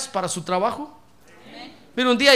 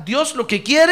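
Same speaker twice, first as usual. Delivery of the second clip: call to repeat; 4 semitones higher, 7 dB louder than usual. Shown as a demonstration. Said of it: "a ver, diga".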